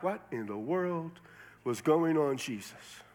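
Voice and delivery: slow, hushed bewilderment, trailing away; mock puzzlement, drawn out then dropping soft; baffled disciples. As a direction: ask it slowly, as if at a loss.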